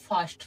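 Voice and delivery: ফার্স্ট with an open "aa" for the i; vowel as আ. Shown as a demonstration. Teacher concludes the i-r-consonant rule, pronunciation demo. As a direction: say ফার্স্ট as "faast". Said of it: "আয়ের উচ্চারণ আ হয়ে গেছে".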